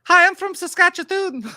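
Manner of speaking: high, loud nerdy reporter voice; Clark Kent voice. Retold or imitated. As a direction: play the meek mild-mannered reporter. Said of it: "changes his posture and voice".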